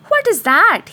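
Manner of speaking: startled by his own humming; surprised. Acted. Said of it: "he asked himself".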